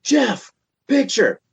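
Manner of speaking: high, slow call across the room; mock stoned drummer calling Jeff; imitating Mick. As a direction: drag out the call to the bandmate, high. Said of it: "And Mick goes".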